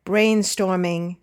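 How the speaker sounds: slow BRAIN-storming, weight on the start; first-syllable stress. Shown as a demonstration. Teacher answers the exercise with "brainstorming", first syllable stressed. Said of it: "stressing, of course, the first or second syllable".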